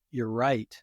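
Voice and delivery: soft, low, sincere apology; a gentle, humble acknowledgement; accountable reply. Retold or imitated. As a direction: own it quietly and calmly. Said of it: "and I go".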